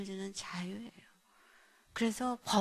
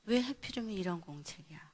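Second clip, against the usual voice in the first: mildly angry parent's questioning; retold angry scolding; 5 dB louder than usual. Mother to child about a singer notebook, mildly angry. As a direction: replay a parent's irritation, rising as it goes. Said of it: "제가 막 화가 나는 거예요".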